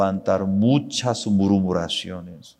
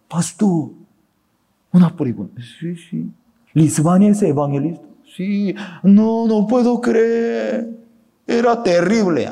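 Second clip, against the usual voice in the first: higher, louder, stunned questions; incredulous Bolivian; 8 semitones higher, 4 dB louder than usual. Retold or imitated. Bolivian asks the pastor about Lisbania, incredulous. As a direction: sound like you can't believe it.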